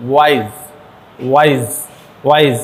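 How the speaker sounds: "ওয়াইজ" said as one separate, unbroken beat; one-syllable demonstration. Shown as a demonstration. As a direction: pronounce "ওয়াইজ" deliberately as a single syllable. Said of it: "ওয়াইজটাকে একটু উচ্চারণ করি".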